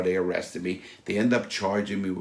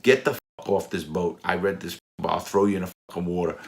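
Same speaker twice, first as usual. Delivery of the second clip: retold tough order, mildly heated; angry threat; 4 dB louder than usual. Renter ordering the owner off the boat, mildly angry retelling. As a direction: lay down the law with a touch of menace.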